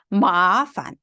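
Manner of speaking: 마판 with long 마, short light 판; neutral tone ending. Shown as a demonstration. Teacher showing students a neutral tone, 판 short and weak. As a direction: stretch 마, then drop 판 short and weak. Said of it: "판자는 경성이기 때문에 짧고 약하게".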